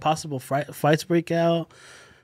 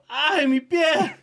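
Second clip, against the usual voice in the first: retold scream; 11 semitones higher, much slower than usual. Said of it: "fucking just screaming".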